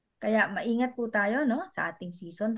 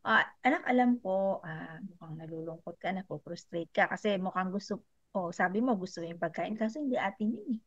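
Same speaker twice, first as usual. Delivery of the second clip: gentle explaining. Retold or imitated. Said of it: "ang season talk po dito sa Set the Heart is".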